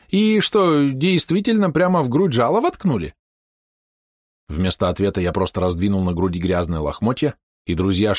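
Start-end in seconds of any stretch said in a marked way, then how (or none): 0.1-3.1 high-pitched doc voice; doc's astonished question. A narrator's reading. Doc asks about the sting in the chest, high and astonished. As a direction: ask it way up high, incredulous. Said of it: "согласился со мной док".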